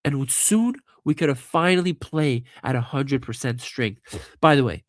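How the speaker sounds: stuffy, blocked-nose voice; talking with a blocked nose from a cold. Real, not acted. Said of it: "it's 'cause I can't breathe through my nose right now".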